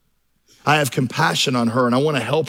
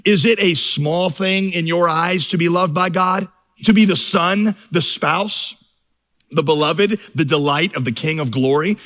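put-on quoting the old Puritan with fervour; quoted Puritan; 2 semitones higher than usual. Preacher reading Baxter to the church, fervent quote. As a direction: read it like a solemn old sermon. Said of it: "Richard Baxter, the Puritan".

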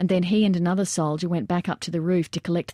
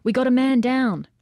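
urgent shout; 6 semitones higher, 4 dB louder than usual. A narrator's reading. Battle report on rooftop.

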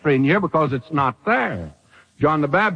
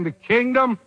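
higher, climbing to a high cry on the king; soaring proclamation; 7 semitones higher than usual. Retold or imitated. Preacher echoing John the Baptist's announcement, soaring. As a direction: lift it up like a herald. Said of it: "John the Baptist is saying".

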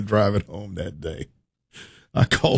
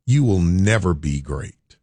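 slow cold verdict; 3 semitones lower, slower than usual. Retold or imitated. Boss dismissing him with a slow verdict. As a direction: say it slowly, flat and final. Boss's harsh verdict, retold.

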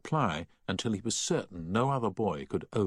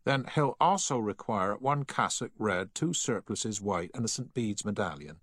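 lightly voiced, higher-pitched assistant; officious shop assistant; 3 semitones higher than usual. Shop assistant adding choir items for a mother, lightly officious. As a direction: reel off the list as a formal shop assistant.

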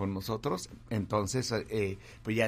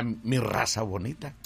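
announcer tagline; 4 dB louder than usual. Shown as a demonstration. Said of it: "pues yo diría".

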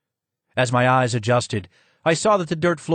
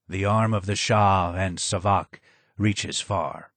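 low and hoarse; 3 semitones lower than usual. Acted. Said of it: "was low and hoarse".

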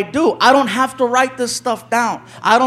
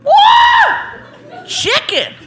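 excited whooping; 7 semitones higher, slower than usual. Retold or imitated. Guest unpacking the gift basket, whooping with glee. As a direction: whoop over every item like a kid at Christmas.

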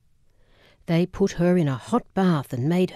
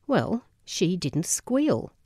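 condescending; slower than usual. Retold or imitated. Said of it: "He looked at me as if I had learning difficulties".

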